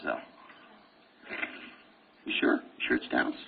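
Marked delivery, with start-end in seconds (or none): 2.3-3.3 low, whispered challenge; whispered tease. Real, not acted. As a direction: breathe it as a sly question. Teasing students quietly.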